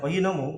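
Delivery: soft lift on "nomu"; rising question intonation. Shown as a demonstration. Teacher confirming the model for students, upward tone on "nomu". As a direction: let "nomu" climb into a question. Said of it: "ke atas gitu ya".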